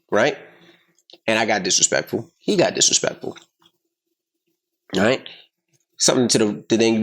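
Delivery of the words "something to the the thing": normal talking voice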